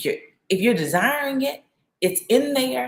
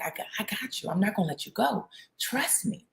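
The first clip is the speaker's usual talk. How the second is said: put-on soft, hushed reassurance to a scared child; retold whisper; 7 dB quieter, faster than usual. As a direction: murmur it close to her ear, soothing. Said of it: "He's whispering in her ear".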